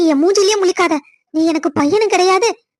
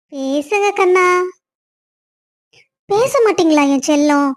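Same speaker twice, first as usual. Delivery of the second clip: coaxing. Acted. Wife coaxes angry husband.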